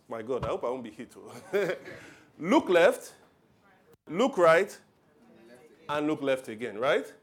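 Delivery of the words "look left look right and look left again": mock road-safety drill. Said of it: "a way you trained people".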